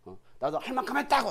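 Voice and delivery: mild imitated complaint; grumble, rising to a protest at the end; resentful grumbling. Believer counting their own efforts, mildly aggrieved grumbling. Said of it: "원망하고 불평하고".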